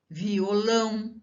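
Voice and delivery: Violão slowly, vi-o-LÃO; stress on LÃO. Shown as a demonstration. Teacher giving an oxytone example, slow stress on vio-LÃO. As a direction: stretch Violão onto its last syllable LÃO. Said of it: "a última sílaba, ela tem a pronúncia mais forte".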